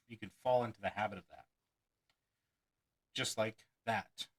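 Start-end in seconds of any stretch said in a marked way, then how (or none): 3.1-4.3 "Just like that" drawn out slowly; slow cliché phrase. Shown as a demonstration. Magician demonstrating the habit, slow drawl. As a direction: lean on the filler, slowly. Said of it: "Like I just did".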